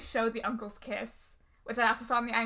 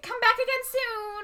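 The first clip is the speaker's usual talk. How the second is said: high, singsong farewell; hammed-up fond send-off, much higher pitched; loving goodbye; 11 semitones higher than usual. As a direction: sweetly call after departing guests. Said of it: "she lovingly says goodbye to them all".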